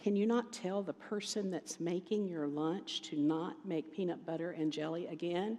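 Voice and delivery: quiet, soft, small little voice. Retelling what she asked him, in a quiet little voice. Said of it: "she said in a quiet little voice".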